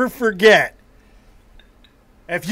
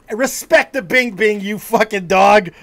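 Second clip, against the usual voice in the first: mock stern warning. Mock scolding the co-host.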